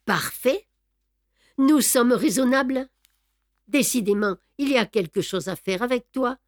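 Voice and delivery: un peu plus haut, satisfait et moqueur; greffier narquois. Acted. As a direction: railler le gamin vaincu. (Brédoux, content, se moque de Beautrelet)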